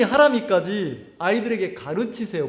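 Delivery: normal talking voice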